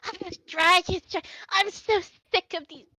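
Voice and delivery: put-on fed-up older lady. Lady waving a wooden spoon, fed up. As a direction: rant like a caretaker at her limit. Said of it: "starts waving around and she goes".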